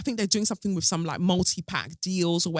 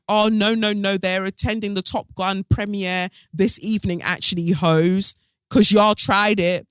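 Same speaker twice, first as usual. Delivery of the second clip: sassy clapback; 3 semitones higher, 4 dB louder than usual. Retold or imitated. Spin doctors' sassy comeback voiced.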